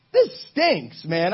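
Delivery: high-pitched complaint, leaning on STINKS; mock griping. Kid stuck in nosebleed seats, mock griping. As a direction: gripe like a let-down fan. Disappointed fan complaining in told joke.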